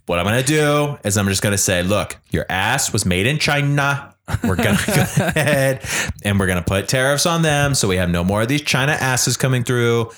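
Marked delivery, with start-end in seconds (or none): 1.8-10.1 lightly voiced Trump rant; a hint of Trump, blustering along; Trump impression. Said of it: "practice that Trump voice".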